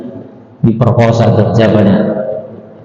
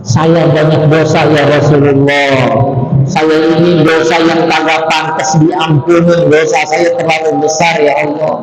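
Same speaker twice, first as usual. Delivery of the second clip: pleading youth; 6 semitones higher than usual. Acted. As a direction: beg like a guilty young man. Sinful youth confesses to Prophet. (pemuda memohon ampun dengan suara tinggi dan memelas)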